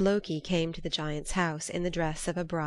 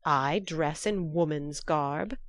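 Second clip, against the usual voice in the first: indignant outburst; slower than usual. Acted. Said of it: "shouted Thor".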